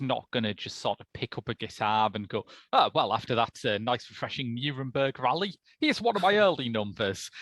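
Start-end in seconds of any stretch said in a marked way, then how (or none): 2.7-7.3 louder, higher, chirpy showman patter; mock rock-star stage banter. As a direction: introduce an old hit to the crowd, tongue in cheek.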